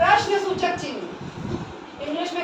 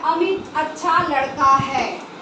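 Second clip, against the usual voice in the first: slow, complete "Amit अच्छा लड़का है", closing on "है"; full-stop reading; 2 semitones lower, slower than usual. Shown as a demonstration. Teacher showing where a sentence ends, full-stop cadence. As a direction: say "Amit अच्छा लड़का है" slowly as a finished statement. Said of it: "हम इस तरह से बोल रहे हैं".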